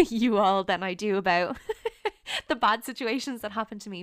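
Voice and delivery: fast, laughing through the emotion; real laughs breaking into the words; emotional laughter. Real, not acted. Thanking her podcast listeners, fast and laughing with emotion. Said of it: "I'm gonna get emotional now".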